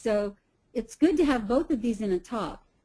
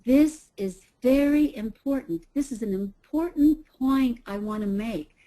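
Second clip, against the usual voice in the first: slow emphatic demo. Shown as a demonstration. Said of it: "You elongate your words and you slow way down".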